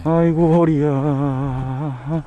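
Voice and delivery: slow, drawn-out groan of back pain; sore back groan. Real, not acted. Sore back after fishing. (허리 아파 끙끙대는 소리)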